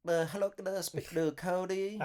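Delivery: put-on high-pitched prank-call Asian accent; hammed-up Asian caller voice. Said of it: "she heard me do the accent".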